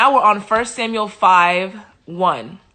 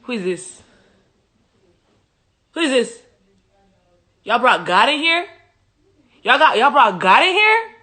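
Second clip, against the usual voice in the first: higher, louder, outraged idol; rising disbelief at the intruder; a hint of a spluttering offended god; indignant Dagon; 4 semitones higher, 4 dB louder than usual. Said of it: "Dagon said".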